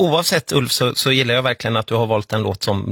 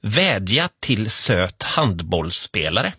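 slow reading; 3 semitones lower, much slower than usual. Shown as a demonstration. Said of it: "Det står".

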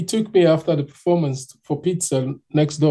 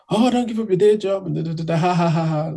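higher-pitched mock taunt trailing into ha-ha-ha; mocking jeer; 3 semitones higher than usual. Rude friends taunt the singing cleaner, mocking. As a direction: imitate rude hecklers with a fake laugh. Rude men jeering at him.

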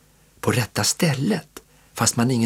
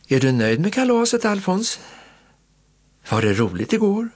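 aunt asking; 9 semitones higher than usual. A narrator's reading.

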